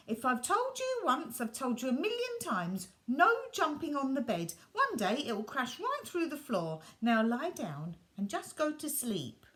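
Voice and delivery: a father fed up at bedtime; exasperated parent telling off; scolding father. Acted.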